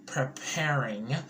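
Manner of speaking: slow hushed whisper. Real, not acted. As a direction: breathe the word slowly. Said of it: "that means that they're preparing".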